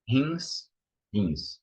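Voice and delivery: "rins" opening on a breathy h sound; correct pronunciation. Shown as a demonstration. Teacher modelling a kidney word for students, correct pronunciation. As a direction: say "rins" as "hins", initial r like h. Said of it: "it's not rins".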